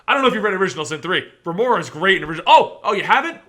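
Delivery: brisk, animated mock segue; demonstrating a segue. Shown as a demonstration. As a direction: demo a lively hand-off with fake surprise. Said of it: "you gotta be like".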